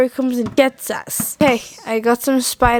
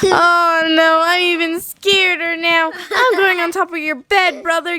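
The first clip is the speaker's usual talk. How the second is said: scared; 5 semitones higher than usual. Acted. Scared of spider.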